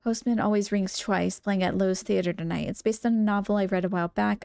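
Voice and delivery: even, measured reading voice; composed letter narration; letter read-aloud. Acted. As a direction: read a love note aloud, evenly.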